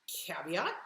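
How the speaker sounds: breathy whispered caveat; whispered aside. Real, not acted. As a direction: drop to a whisper for the warning.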